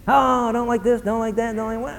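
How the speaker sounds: whiny mock complaint trailing off; complaining. Churchgoer who dislikes everything, complaining. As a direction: fade away into fussy grumbling. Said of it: "There's always something to complain about".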